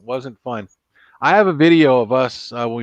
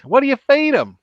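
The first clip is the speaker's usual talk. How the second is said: wide-mouthed frog; 13 semitones higher, 3 dB louder than usual. Acted. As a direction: stretch every word like a big-mouthed frog. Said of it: "And he goes".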